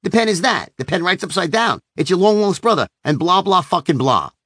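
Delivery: lightly voiced used car salesman rap; mocking salesman pitch. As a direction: parody the pushy pen pitch, lightly. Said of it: "mocking his used car salesman rap".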